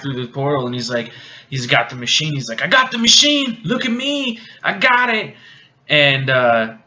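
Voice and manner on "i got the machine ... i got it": high, excited mock bragging; triumphant boasting. Turncoat showing off the captured machine, mock triumph. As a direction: crow it like a show-off wanting attention.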